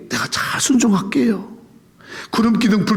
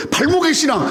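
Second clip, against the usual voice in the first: preaching shout; 7 semitones higher than usual. Real, not acted.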